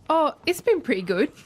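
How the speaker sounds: put-on English accent breaking into a laugh; a playful half-joking English accent, giggling. Co-host teasing the host on air, put-on English accent with a giggle. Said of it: "Oh, there it is".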